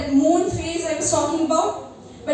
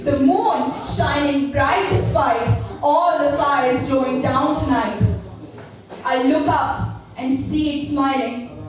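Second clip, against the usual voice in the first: slow, solemn spoken word; poem recitation. Acted. Recites her poem Moon.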